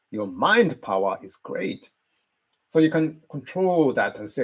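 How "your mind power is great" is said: "mind" stressed with a pitch lift; emphasis on mind. Shown as a demonstration. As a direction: slowly, punch the word "mind". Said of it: "to emphasize this word".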